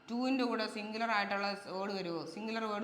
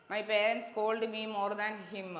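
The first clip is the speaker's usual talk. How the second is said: slow, deliberate reading of the right sentence; slow reading of the correct example; 3 dB louder, much slower than usual. Shown as a demonstration. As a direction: read the corrected sentence slowly for the class. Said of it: "അതായത്".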